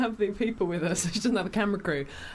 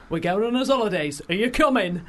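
imitating a singer; 3 dB louder than usual. Retold or imitated. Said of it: "looks in the camera and she goes".

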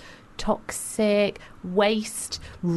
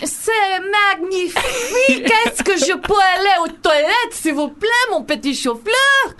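hammed-up French; 11 semitones higher, 3 dB louder than usual. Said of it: "you sound like you're having sex".

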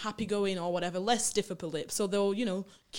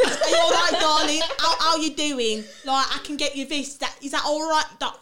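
put-on a slightly higher, louder British charmer doting on a girl; mock British charmer; 6 semitones higher, 6 dB louder than usual. To friends, imitating a British guy being doting, in a mock British accent. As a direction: play the sweet-talking British boyfriend. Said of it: "a white British guy, he might be like".

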